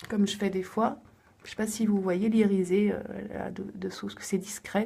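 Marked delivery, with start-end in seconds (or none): 2.9-4.9 a soft whisper. Real, not acted. Pointing out to viewers the discreet shimmer under her eye, in a whisper. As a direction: whisper it as if sharing a small detail.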